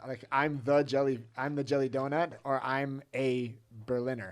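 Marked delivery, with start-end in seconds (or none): 0.3-2.3 "I'm the jelly donut" with weight on "the"; example of "the". Shown as a demonstration. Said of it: "when you say the word "the". 2.6-4.3 slow "I'm a Berliner", "a" drawn out; article contrast. Shown as a demonstration. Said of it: "when you say the word".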